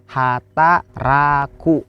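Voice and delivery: "Hataraku" very slow, syllables apart; "Hataraku" stretched with a gap after each syllable. Shown as a demonstration. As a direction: sound out "Hataraku" for learners. Teacher breaks word into syllables.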